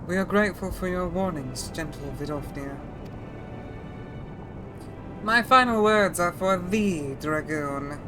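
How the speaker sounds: put-on throaty older woman dragon voice. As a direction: ancient dragon speaking with rasp. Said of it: "Feeling the Odile in that dragon voice?".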